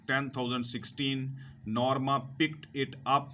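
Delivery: slow, deliberate reading to students; careful classroom read-aloud; slow textbook reading. Acted. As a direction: read each word out slowly for learners. Reads textbook English slowly to students.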